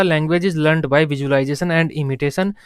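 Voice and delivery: very slow, each word set apart for note-taking; slow dictation. Shown as a demonstration. Teacher to class, dictating Bandura's line very slowly. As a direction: read it out slowly for students to copy.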